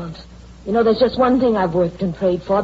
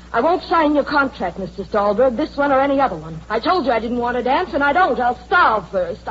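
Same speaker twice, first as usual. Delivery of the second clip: defiant refusal; 3 semitones higher than usual. Acted. Star angrily refuses the contract.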